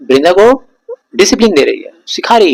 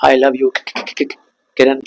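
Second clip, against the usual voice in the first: Shah Rukh Khan stammer; 5 dB quieter than usual. Retold or imitated. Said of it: "Shahrukh Khan को सुने होगे डर picture में".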